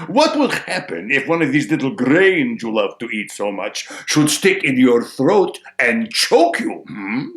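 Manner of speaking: loud crow posing a problem; needling crow. Acted. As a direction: press the question as the crow. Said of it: "says the crow".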